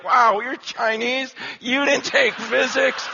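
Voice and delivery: slow, drawn-out disbelief; mock astonishment. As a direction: imitate classmates amazed at you. Acting out astonished classmates.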